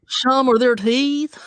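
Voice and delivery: slow, giggling repeat; laughing. Real, not acted. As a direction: laugh through it.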